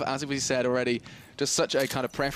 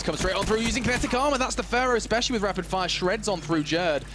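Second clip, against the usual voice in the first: higher, quickened-energy match call; excited play-by-play; 5 semitones higher than usual. Real, not acted. Caster calls a push straight through, excited. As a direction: lift the call as the push comes.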